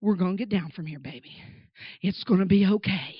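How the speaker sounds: put-on calm a frightened child, understated; reassuring dad. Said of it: "my dad's still reassuring me".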